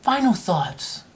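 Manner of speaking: slow, solemn Final thoughts; lightly voiced Jerry Springer sign-off; mock Jerry Springer. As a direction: intone Final thoughts gravely and slowly. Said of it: "he'd be like".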